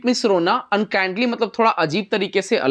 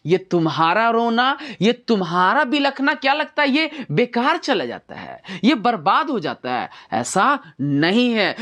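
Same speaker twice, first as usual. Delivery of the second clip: a touch of a pleading lover, slightly higher; 4 semitones higher than usual. Acted. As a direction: plead gently with the crying beloved. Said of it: "ये बोलता है". (रोती प्रेमिका से विनती करता प्रेमी)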